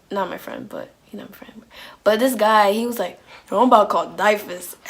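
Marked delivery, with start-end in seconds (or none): 3.5-4.8 mock shout. Guy threatens during tense scene.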